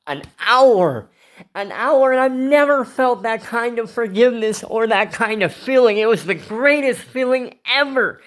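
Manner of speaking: fighting back real tears as it spills out; raw, choked-up confession; tearful. Real, not acted. Tearful retelling of forgiving attacker.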